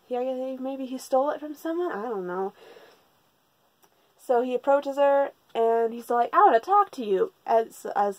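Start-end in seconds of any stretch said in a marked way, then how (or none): 6.3-7.3 lightly put-on higher girl voice; imitating a girl. Boy in drag approaches his crush, imitating a girl. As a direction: pitch it up a little, playing a boy posing as a girl. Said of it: "you know, as a girl".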